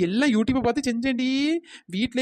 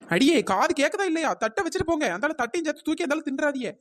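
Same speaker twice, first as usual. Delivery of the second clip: indignant calling after; 3 semitones higher than usual. Acted. Owner calls after fleeing customers.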